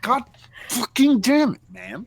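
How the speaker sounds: high, loud exasperated swearing; mock frustrated curse. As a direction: curse at the runaway rabbit. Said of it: "I'm like".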